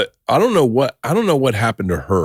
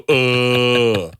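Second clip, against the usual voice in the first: long heavy "ugh"; drawn-out mock groan of dead weight; imitated groan. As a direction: groan like someone hanging limp. Child hanging on, dragging him down.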